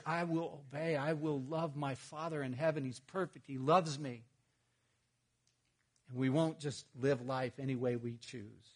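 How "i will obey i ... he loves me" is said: devoted vow. Retold or imitated. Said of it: "your heart is".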